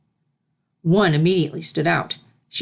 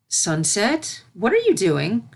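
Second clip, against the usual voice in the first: worried; 4 semitones higher, slower than usual. Acted. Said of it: "Worry formed in her stomach".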